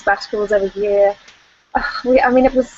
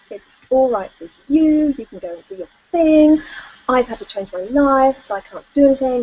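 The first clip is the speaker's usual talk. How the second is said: retold rant; 4 semitones higher than usual. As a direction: replay the blow-up at the husband, half-acted. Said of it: "I just went off on one".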